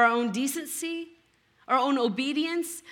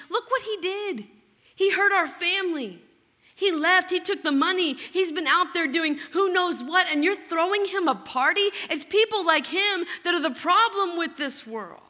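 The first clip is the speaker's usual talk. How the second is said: higher, indignant listing of the brother's sins; superior accusation; 4 semitones higher, 3 dB louder than usual. Retold or imitated. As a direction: look down on him as you accuse. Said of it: "you just hear the superiority".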